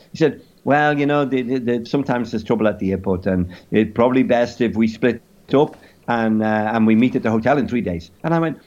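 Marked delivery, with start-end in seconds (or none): 0.7-8.1 lightly put-on French accent, hesitant; caricature French accent. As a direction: evasive explanation in mock-French English. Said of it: "in a caricature French accent".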